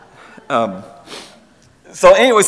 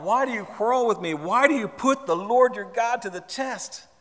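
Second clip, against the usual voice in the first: higher-pitched, pleading challenge; exasperated reply; 6 semitones higher than usual. Acted. Moses replies to quarreling Israelites, exasperated. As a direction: throw the questions back at the complainers. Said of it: "They, they quarreled with Moses".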